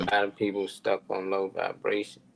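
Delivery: drops to a whisper on the aside. Real, not acted. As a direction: whisper it like a confidence. Aside about low vibration.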